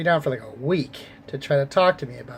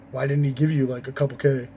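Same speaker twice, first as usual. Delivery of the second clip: mock greedy people. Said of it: "the only thing they could say was".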